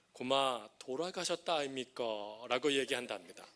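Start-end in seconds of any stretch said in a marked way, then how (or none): 0.1-2.0 Gyeongsang dialect. Retold or imitated. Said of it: "경상도 분들이 ... 이렇게 얘기합니다".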